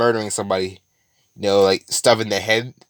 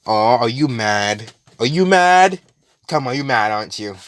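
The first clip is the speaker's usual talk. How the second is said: mocking taunt. Villain needling the crying, furious man, mocking sing-song. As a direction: poke fun at his rage like teasing a child.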